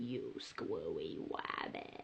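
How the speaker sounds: very quiet, breathy, whispered vocal fry. Demonstrating a vocal fry warm-up exercise, in an Elmer Fudd voice. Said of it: "Think of Elmer Fudd".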